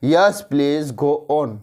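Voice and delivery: slow, polite and courteous; gentle polite reply; polite invitation. Shown as a demonstration. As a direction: invite them kindly to go on. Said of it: "उसको बोलेंगे".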